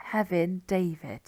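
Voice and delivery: "Hefin" in Welsh, "David" as in English; anglicised surname. Shown as a demonstration. Teacher explaining second names, "David" in an anglicised way. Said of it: "kind of anglicised way".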